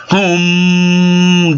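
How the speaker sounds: high hummed engine noise, held out; imitated engine hum. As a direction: hum like a smooth-running motor.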